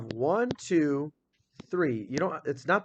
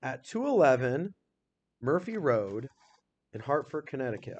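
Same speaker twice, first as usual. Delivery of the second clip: slow careful read. Shown as a demonstration. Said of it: "So it says".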